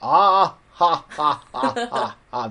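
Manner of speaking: host mimicking his cohost's laugh; imitating her laugh. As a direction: put on Okayo's big laugh. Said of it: "おかよの笑い声の真似って何".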